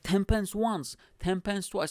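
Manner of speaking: high-pitched auction call; imitated auctioneer counting down a bid. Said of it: "like, an auctioneer pretty much".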